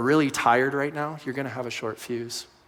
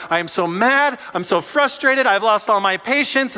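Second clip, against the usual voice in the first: mock exasperation; 8 semitones higher, 9 dB louder than usual. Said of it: "David is constantly like".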